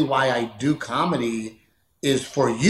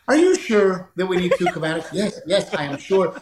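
laughing through argument; 3 semitones higher than usual. Retold or imitated. Argument acted, breaking up laughing.

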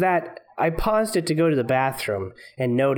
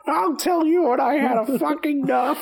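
much higher belligerent monkey voice; drunk monkey voice; 11 semitones higher than usual. Pretend.

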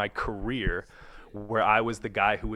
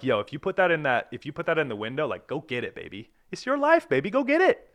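higher, pumped-up pep talk to himself; rising excited pep talk; hyped self-talk; 3 semitones higher than usual. Retold or imitated. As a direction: fire yourself up. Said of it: "But I'm like".

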